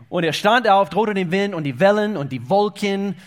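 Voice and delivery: lauter, kraftvoller Höhepunkt; laut predigend. Real, not acted. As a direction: mit voller Kraft verkünden. Climax of storm story. (kräftig, höher und lauter)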